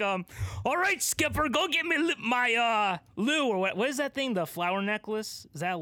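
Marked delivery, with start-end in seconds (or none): 0.7-3.5 high, breezy captain. Pretend. Captain orders skipper to fetch his lei, high and breezy. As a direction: ask for the lei like a carefree captain. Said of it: "The captain's like".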